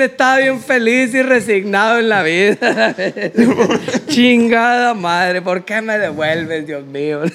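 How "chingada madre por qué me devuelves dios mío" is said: laughing lament. Pretend. Mock lament after waking from dream.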